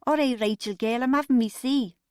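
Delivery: put-upon complaint; complaining. A narrator's reading. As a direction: grumble it loudly at being interrupted. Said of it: "she complained".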